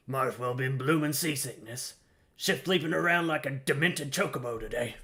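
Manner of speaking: a lightly voiced gruff old deckhand, chatty; grizzled sailor voice. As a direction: read it as a weathered old seaman, barely shifted. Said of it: "Stay with the grizzled voice".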